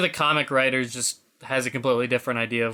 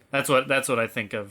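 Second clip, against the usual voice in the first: ordinary talk, nothing marked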